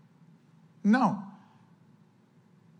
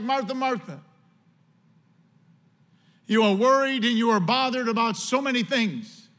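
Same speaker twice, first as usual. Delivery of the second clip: soft compassion; 2 semitones higher than usual. Shown as a demonstration. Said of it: "soft and one of compassion".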